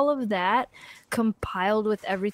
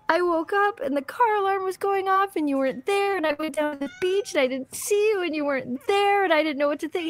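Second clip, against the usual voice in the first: mild retold crying; 8 semitones higher than usual. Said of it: "I started crying".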